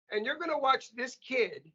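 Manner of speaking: put-on drawn out like an old Greek father, heavy accent. Greek father challenging the teachers, heavy Greek accent. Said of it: "This with a heavy Greek accent".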